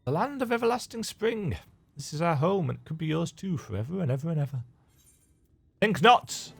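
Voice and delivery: a hint of a playful pixie, reading the quest text; lightly voiced pixie. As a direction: tease it like a mischievous fairy. Voicing NPC dialogue.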